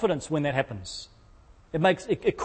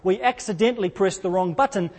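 sheepish flight attendant. Retold or imitated. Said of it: "this very sheepish voice of a flight attendant".

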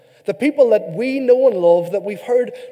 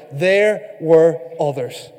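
slow model phrase; 3 semitones lower, much slower than usual. Shown as a demonstration. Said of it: "in your best Irish accent say".

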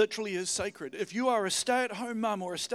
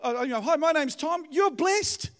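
bright, raised over-the-fence hello; friendly neighbor greeting; 6 semitones higher, 6 dB louder than usual. Pretend. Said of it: "lean over the fence one day and say".

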